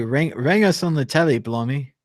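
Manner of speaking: mock British accent. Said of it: "You have to say".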